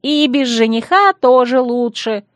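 high, slow, carrying call. A narrator's reading. Bride adds a parting shot to the women, calling. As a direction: taunt them from afar. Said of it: "добавила".

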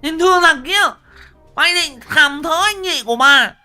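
jealous wife screaming threats with an axe; jealous furious screaming. Acted. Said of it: "Vừa đuổi vừa chửi".

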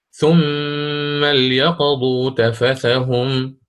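slow recited ليقضوا with silent lam; ترتيل بإسكان لام ليقضوا; Quran recitation, sukun. Shown as a demonstration. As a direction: chant it slowly as Qalun reads. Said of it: "فيقرأ بالسكون".

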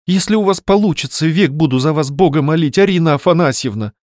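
"Арина Афанасьевна" cried out with a fervent falling tune; impulsive exclamation. Acted. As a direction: burst out with a grateful vow, "Арина Афанасьевна" exclaimed. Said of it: "воскликнула в порыве Варя".

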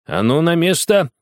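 put-on high, loud commanding boy; angry shout. A narrator's reading. Boy shouting at the girl leaving, furious. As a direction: bark the order to stop. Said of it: "закричал Огоньков".

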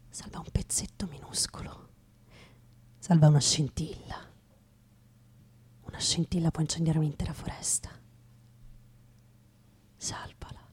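hushed, whispered plea; the quiet voice begging to save a spark; whispered urgent plea; soft inner voice. Acted. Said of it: "qualcos'altro diceva".

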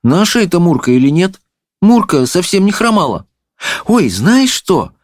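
put-on high girlish voice; high-pitched doubtful princess; princess, unsure. A narrator's reading. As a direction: puzzle aloud in a high voice. Princess wonders about the cat.

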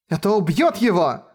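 high, frightened exclamation; horrified cry. Acted. Woman realizing the fence will kill him, high horrified cry. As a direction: blurt it out in sudden horror. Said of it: "И с ужасом поняла".

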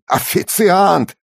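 Официант! yelled high and slow in scorn; contemptuous shout. Acted. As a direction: sneer the word Официант! as an insult. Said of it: "вспыльчивый итальянец".

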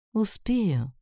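high, confident lilt; assuring. A narrator's reading. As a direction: assure smugly, pitch swooping. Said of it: "уверил меня Рейми".

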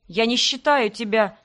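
slow, words catching in throat; choking on words. Acted. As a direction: break off, choking on the word. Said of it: "подавился он несказанным словом".

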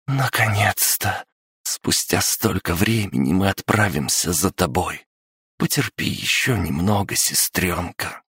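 put-on determined girl before the tower; young woman voice. Liara voiced by narrator. (голос девушки)

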